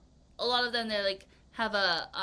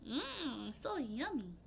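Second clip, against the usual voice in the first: soft savoring mmm; 3 semitones higher, 8 dB quieter, slower than usual. Pretend. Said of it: "So you're like".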